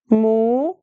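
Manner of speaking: Mu-se-um split into three clear syllables, "moo-zay-oom"; German Museum in syllables. Shown as a demonstration. Teacher to German learner, three separate syllables. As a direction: spell out Mu-se-um slowly, syllable by syllable. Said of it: "So it says three syllables".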